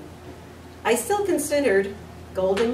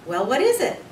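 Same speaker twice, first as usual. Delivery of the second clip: irritated; 5 semitones higher, 5 dB louder than usual. A narrator's reading. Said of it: "getting irritated".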